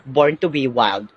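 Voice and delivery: hammed-up beast roar; playful wild-animal growl about her hair; mock wild growl.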